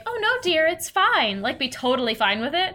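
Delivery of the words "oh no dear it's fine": ditzy aunts. Retold or imitated. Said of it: "they would be like".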